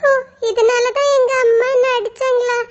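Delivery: a small bird who finally understands; child crow, grateful; little crow. Acted. Little crow thanks the mango.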